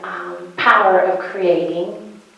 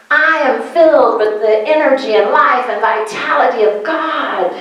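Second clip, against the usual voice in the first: energetic affirmation; 3 semitones higher than usual. Shown as a demonstration. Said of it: "Doesn't have a different energy".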